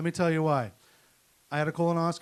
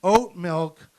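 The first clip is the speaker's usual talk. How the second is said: wife voice; 4 semitones higher, 6 dB louder, much slower than usual. Retold or imitated. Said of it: "and then she was like".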